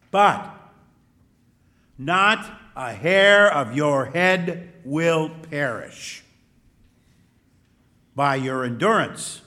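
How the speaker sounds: measured, emphatic gospel reading aloud; scripture reading. Real, not acted. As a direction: proclaim the gospel clearly, phrase by phrase.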